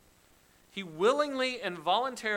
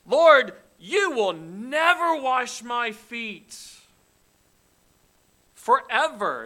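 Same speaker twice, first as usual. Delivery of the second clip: loud, slow, defiant vow; emphatic refusal; 5 semitones higher, 11 dB louder, slower than usual. Acted. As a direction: plant your feet and refuse. Peter refuses foot washing.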